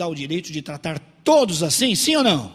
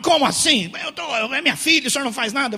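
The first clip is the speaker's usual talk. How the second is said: louder, higher indignant outburst; irritated protest; 7 semitones higher, 5 dB louder, faster than usual. Acted. Father challenged by the pastor, irritated and loud. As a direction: act out an offended man raising his voice. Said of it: "o homem ficou irritado".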